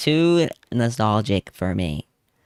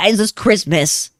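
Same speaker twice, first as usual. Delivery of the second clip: much higher and louder, thrilled; excited outburst; 11 semitones higher, 8 dB louder than usual. Real, not acted. Vlogger suddenly delighted, much higher and louder. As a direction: blurt it out in delight.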